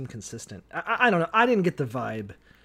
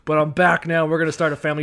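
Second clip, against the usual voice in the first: loud mock dad; 7 dB louder, faster than usual. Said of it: "He's like".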